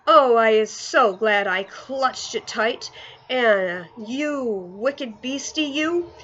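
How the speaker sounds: mild exasperation, then slow scolding of the beast; exasperated. Acted. Giant correcting Sophie, exasperated, then scolding the dream. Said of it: "the exasperated B F G".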